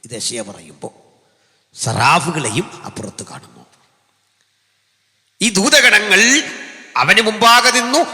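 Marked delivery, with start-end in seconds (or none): 5.4-8.0 high, loud pulpit cry rising at the end; full-force preaching. Acted. Preacher crying out about angels before God. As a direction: lift it up to the rafters.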